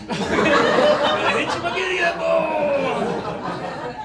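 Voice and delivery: high, loud, slow groaning; a hammed-up creaky groan; freaky old-man groan. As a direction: strain through the words like a creaky old man. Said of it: "That's a freaky noise".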